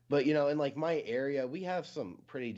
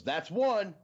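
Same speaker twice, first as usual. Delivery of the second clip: higher, louder curt count; mock angry count; 10 semitones higher, 7 dB louder than usual. Amish man counting off his unruly horse, mock stern shout. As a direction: snap the number out like a fed-up farmer. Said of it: "And he goes".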